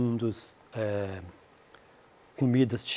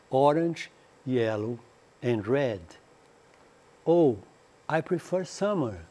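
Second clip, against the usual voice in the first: slow, careful English dialogue for learners; slow dialogue reading. Acted. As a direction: read each line out clearly for students to repeat. Reads dialogue again to learners. (leitura lenta e clara do diálogo)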